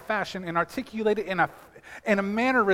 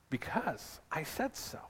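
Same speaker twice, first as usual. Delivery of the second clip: low stern parent; 4 semitones lower, 16 dB quieter, slower than usual. Retold or imitated. Parent answering child's why.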